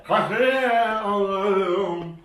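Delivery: singing with ice in mouth; slurred words round a mouthful of ice. Real, not acted. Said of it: "İki tane buzu bir ağıza".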